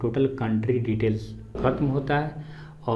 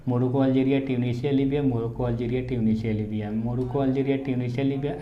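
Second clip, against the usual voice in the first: repetition drill; faster than usual. Shown as a demonstration. Teacher showing students how to repeat three times, rote drill. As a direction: run the list round in a continuous loop. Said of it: "ऐसे करके तीन".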